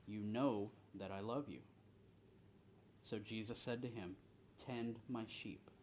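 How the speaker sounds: measured, deliberate Bible reading; scripture reading. A narrator's reading. Bible study leader reading the Gospel to the group, measured reading. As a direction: read the passage aloud to the group, pausing between phrases.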